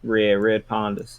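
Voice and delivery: slow northeastern "red Pondas"; northeastern accent. Shown as a demonstration. Caster plays with the team name, slow northeastern accent. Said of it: "you have a northeastern accent".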